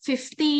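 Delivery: slow, stretched fifty; fifty drawn out. Shown as a demonstration. Teacher revealing the answer fifty to her students, drawn out. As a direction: let fifty linger as the answer. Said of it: "คำตอบก็คือ fifty".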